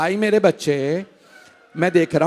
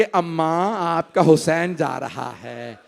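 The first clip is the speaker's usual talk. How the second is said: tearful farewell; slower than usual. Retold or imitated. Hussain clinging to mother's grave, voiced as tearful farewell. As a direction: say it like a grieving child to a mother. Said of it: "जैसे एक छोटा बच्चा माँ से लिपट के रोता है".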